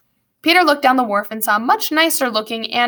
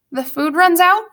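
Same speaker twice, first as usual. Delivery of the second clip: higher, rising worried question; alarmed boy; 6 semitones higher, 4 dB louder than usual. Acted. Tubby Ted to Slank about the food, alarmed question. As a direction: ask it in boyish dismay.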